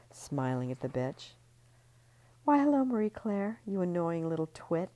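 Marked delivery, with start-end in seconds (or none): 2.4-4.9 higher, louder fake-sweet hello; sugar-coat the insult; sweet mock greeting. A narrator's reading. Ellie tipsily taunting Marie Claire, fake sweet. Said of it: "I'm gonna say all that again".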